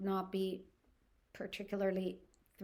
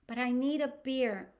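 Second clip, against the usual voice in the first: higher, insistent retold plea; desperate pleading; 4 semitones higher, 4 dB louder than usual. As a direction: imitate her begging for a drink. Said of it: "desperately asking for beer".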